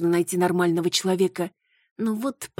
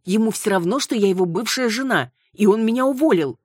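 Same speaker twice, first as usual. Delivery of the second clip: indignant complaint; 8 semitones higher, 5 dB louder than usual. Acted. Retelling the unfair accusations.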